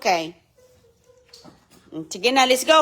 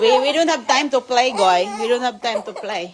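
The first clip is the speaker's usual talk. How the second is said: laughing prompt; 6 dB louder than usual. Shown as a demonstration. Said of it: "C J say".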